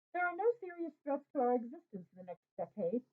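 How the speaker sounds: put-on light Russian accent, statesman addressing crowd; a hint of a thick Russian accent. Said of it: "in his thick Russian accent".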